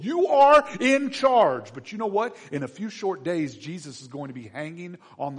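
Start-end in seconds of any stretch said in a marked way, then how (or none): 0.0-1.7 loud, high, drawn-out proclamation; slow, ringing shout of praise; acclaiming crowd. Acted. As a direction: hail the king at full voice. Acted crowd hailing their king.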